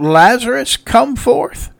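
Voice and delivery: high, called-out command; crying out. Retold or imitated. Jesus calling Lazarus at the tomb, high cry. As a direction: call the dead man out of the tomb. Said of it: "he cries out".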